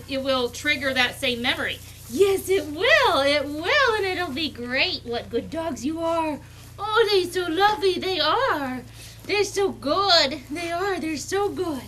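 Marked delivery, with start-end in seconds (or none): 2.1-5.0 louder, slow sing-song cooing; puppy baby talk. Acted. Breeder turns to coo at her puppies, sing-song. 5.0-11.8 puppy praise talk. Real, not acted. Breeder gushes praise at the puppies while holding them.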